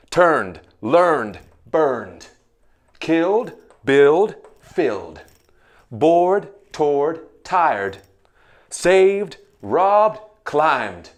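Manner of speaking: ending voiced as D; D sound. Shown as a demonstration. Teacher drilling D endings. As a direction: let each ending buzz as a D. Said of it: "Are you ready for the D sound?".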